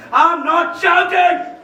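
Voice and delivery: "I'm not shouting" yelled, drawn out on shouting; shouting denial. Acted. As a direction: yell that he is not yelling. (चिल्लाकर "I'm not shouting")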